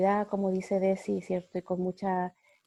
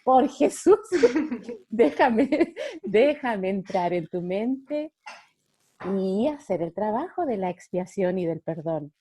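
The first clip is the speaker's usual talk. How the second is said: Holy Spirit speaking; 5 dB louder than usual. Acted. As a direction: plead to be let in, playfully. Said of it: "el Espíritu Santo te dijera".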